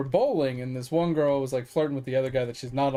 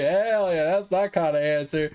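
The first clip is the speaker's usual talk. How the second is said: amused cheer; 3 semitones higher, 4 dB louder than usual. Retold or imitated. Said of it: "I was like".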